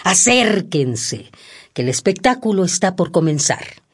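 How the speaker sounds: booming circus barker call; ringmaster. Acted. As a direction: draw the crowd in like a ringmaster. Circus barker calling the audience.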